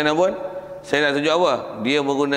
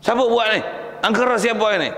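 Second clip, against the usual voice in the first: shocked villagers; 6 semitones higher, faster than usual. Acted. People discovering smashed idols.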